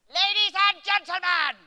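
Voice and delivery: squeaky, high-pitched announcer; silly high announcement. Pretend. Magician addresses the audience mid-gag, silly high announcement.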